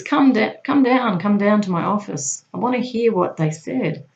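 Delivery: mildly pressing boss calling someone in; retold boss's summons. Boss summoning the agent to his office, retold insistently.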